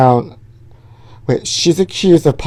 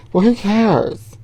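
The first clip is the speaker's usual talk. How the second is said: slow, higher, drawn-out who cares; mock indifference; 4 semitones higher, slower than usual. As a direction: shrug it off theatrically. Mock dismissal of news.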